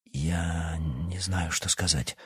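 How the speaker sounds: soft, slow, faltering mumble; he can barely get the words out, slowly; quiet stammering reply. A narrator's reading. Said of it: "пролепетал Никита".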